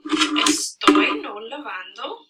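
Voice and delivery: slow Spanish with a long mid-sentence pause; slowly dictate, pausing between phrases; dictated example sentence. Shown as a demonstration. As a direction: read it out piece by piece as if writing it. Writing out student's wrong sentence.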